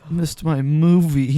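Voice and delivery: high, slow mock whine. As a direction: whine it back mockingly. Mocking friend in silly voice.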